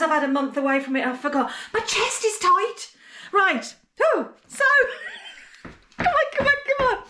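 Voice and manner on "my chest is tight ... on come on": choked up. Real, not acted.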